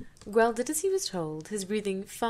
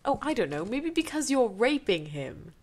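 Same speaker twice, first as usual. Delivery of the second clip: louder, biting sarcasm; louder cutting retort; sarcastic retort; 4 semitones higher, 4 dB louder than usual. Real, not acted. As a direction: answer the character with scorn. Reader answers character sarcastically.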